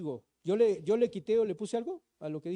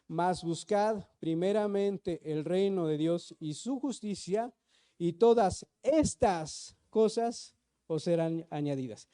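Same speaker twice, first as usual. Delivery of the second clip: slow, measured Bible reading; preacher reading scripture to the congregation; slower than usual. Acted. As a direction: read the verse aloud slowly and deliberately. Congregation reads verse aloud.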